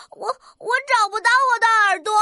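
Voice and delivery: stammered, mildly tearful complaint; sad little rooster. Acted. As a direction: play a child upset at losing something. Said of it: "怎么这么难过的样子呀".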